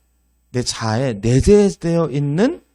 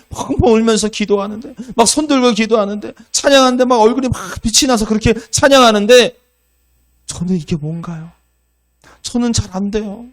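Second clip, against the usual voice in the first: put-on tearful young woman; 9 semitones higher, 4 dB louder than usual. Young woman's tearful confession, voiced.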